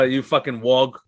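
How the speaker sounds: put-on Australian accent. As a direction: toss out an insult in Australian. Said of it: "that's when my Australian comes out".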